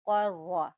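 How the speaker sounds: क़र्रा with a thick, heavy qaf. Shown as a demonstration. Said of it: "काफ को मोटा करके पढ़ेंगे क़ा".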